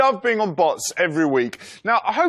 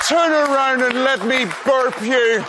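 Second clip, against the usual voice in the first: mock wooing voice; 3 semitones higher than usual. Wooing Andy in baby talk.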